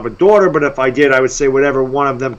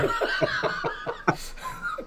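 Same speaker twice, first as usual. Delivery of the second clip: breathy laugh; 16 dB quieter than usual. Real, not acted. Co-host laughs after the joke.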